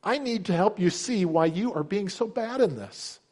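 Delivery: acted indignant son scolding his father; disrespectful son. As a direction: lecture Dad as an insolent son. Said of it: "This is so disrespectful".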